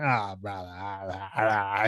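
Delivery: put-on lazy accented drawn-out "Ah, brother"; a light put-on Dagestani accent, easygoing; imitating Khamzat. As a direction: drawl "brother" like the fighter does after everything. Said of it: "after everything".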